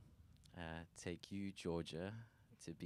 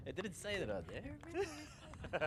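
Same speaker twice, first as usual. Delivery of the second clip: laughing; much slower than usual. Real, not acted. Groom laughing at surprise addition.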